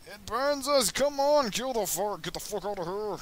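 high, loud frantic yelling; panicked yelling. Real, not acted. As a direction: scream at the crew to stop the fire.

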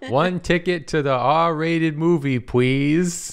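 lightly voiced eager boy; a hint of a polite little kid; wholesome 1950s kid. Kid voice in 1950s show bit.

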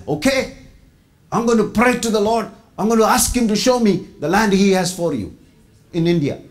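earnest pledge in a hint of European accent. New believer from Austria promising to pray, light European accent. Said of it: "in his European accent".

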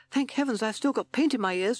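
high-pitched relieved toad voice; timid toad. A narrator's reading. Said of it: "said Toad".

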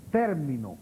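TÉR-mi-no, falling after the first syllable; accent the start of "Término"; "Término" as a proparoxytone; stress on first syllable. Shown as a demonstration. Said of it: "es una palabra esdrújula".

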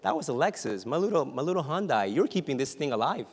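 car owner marvelling to the Lord, loud; grateful prayer. Retold or imitated. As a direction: marvel at God keeping the car alive. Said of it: "I'm thinking".

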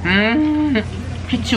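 chewing while talking; speaking between sips; mouth full. Real, not acted. Seen 0: Mouth full and chewing at start; later sips through straw, holds sandwich.

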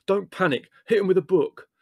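high, urgent roared orders; Leslie. Acted. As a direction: roar instructions over the commotion. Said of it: "roared Leslie".

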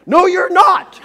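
high, loud, laughing "No"; wife's sharp comeback through laughter; loud laughing retort. Retold or imitated.

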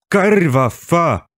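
high, drawn-out curse yelled out; driver shouting. A narrator's reading. Driver who nearly ran a man over, shouting. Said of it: "pokrzykiwał kierowca".

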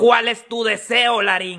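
slow low dragon voice. Acted. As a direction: speak slowly as a magic dragon. Wish dragon speaks.

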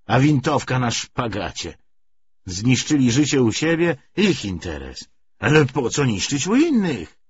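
put-on a gruff old soldier grumbling to a comrade; rough corporal. Corporal complaining to Karol about Bolsheviks, loud folksy rant.

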